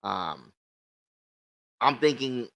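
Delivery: talking through a swollen lip; words a bit thick from a puffy lip. Real, not acted. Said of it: "if I sound weird or if I'm slobbering".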